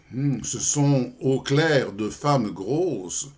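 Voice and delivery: slow, deliberate comic verse reading; poem recitation. Acted. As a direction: spin out the verse with pauses before each reply. (récitation de poème comique, lente et ménagée)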